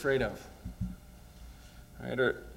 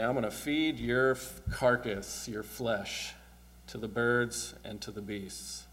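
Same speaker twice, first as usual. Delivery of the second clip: sneering Goliath; 2 semitones lower, 6 dB quieter, slower than usual. Acted. Preacher voices Goliath threatening David, understated sneer. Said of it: "hear the sneer in his voice".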